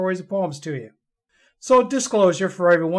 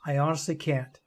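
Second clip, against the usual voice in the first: dry whisper; 4 semitones lower, 7 dB quieter than usual. Acted. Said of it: "Her voice is a dry whisper".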